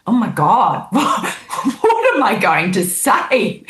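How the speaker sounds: half-laugh it out, suddenly realizing she must speak; retold panic. Remembering being called on stage, laughing flustered panic. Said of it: "that feeling going from surprise to".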